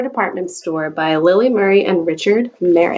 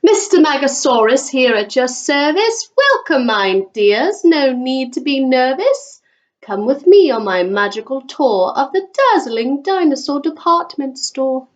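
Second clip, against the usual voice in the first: slightly higher grand welcome; showman shopkeeper; 4 semitones higher than usual. Acted. Mister Magosaurus welcoming his customers, a lightly grand showman. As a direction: welcome guests like a ringmaster.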